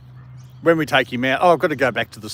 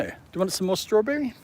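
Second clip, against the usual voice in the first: pet talk; 9 semitones higher than usual. Real, not acted. Offering the dog more.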